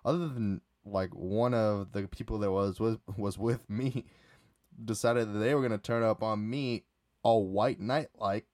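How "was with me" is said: ordinary talk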